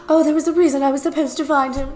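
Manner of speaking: fast, airy mock-dreamy musing; mock the dreamy chosen one. Shown as a demonstration. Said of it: "I do the mocking, dreamy voice".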